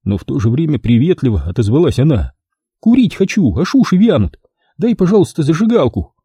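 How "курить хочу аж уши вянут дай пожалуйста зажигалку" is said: raised-pitch whiny ask; жалобно; plaintive request. Acted. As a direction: beg for a lighter. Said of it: "Как-то жалобно попросила она".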